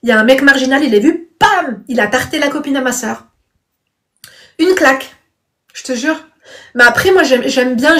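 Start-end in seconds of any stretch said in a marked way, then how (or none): 1.4-1.8 drawn-out "pam" for a slap; imitated slap noise. Telling how a stranger hit her sister's friend, imitated smack. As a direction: punch out a slap sound.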